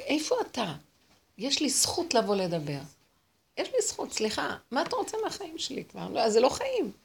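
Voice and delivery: retold indignant plea, pitch jumping up; mock-demanding, pleading upward; indignant protest. Woman demanding answers from God, indignant.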